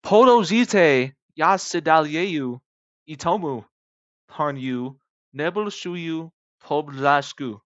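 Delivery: loud, slow read-out of Russian; attempted Russian. New subscribers quoted by the YouTuber, attempted Russian. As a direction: sound out Russian word by word, with breaks. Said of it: "I'll say it in Russian".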